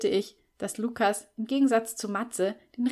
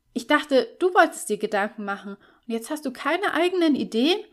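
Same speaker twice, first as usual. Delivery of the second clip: mock disappointment; 6 semitones higher, 5 dB louder than usual. A narrator's reading. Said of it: "in gespielter Enttäuschung".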